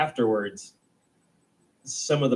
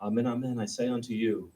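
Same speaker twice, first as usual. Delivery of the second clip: solemn Jesus; 7 dB quieter than usual. Retold or imitated. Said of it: "he's like".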